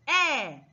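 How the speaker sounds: É said as a strong syllable; stress on É. Shown as a demonstration. Teacher showing pupils a tonic monosyllable, stress on É. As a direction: give É full, strong stress. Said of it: "o som é forte".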